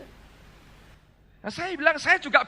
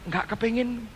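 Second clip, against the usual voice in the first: soft, offhand mock of wife's flat no; a touch of quiet reluctance in the wife's reply; reluctant reply; 6 dB quieter than usual. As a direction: shrug it off quietly as the wife. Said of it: "Terus dia berkata begini".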